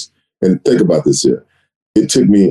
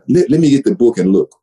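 John's nasal voice; 6 semitones higher than usual. Retold or imitated. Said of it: "John has that nasally voice".

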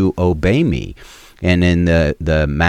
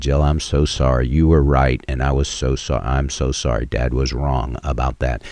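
softer, lower, heartfelt apology to a daughter; sincere apology; 5 semitones lower, 4 dB quieter than usual. Retold or imitated. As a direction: say sorry gently, from the heart. Father apologizing to daughter later.

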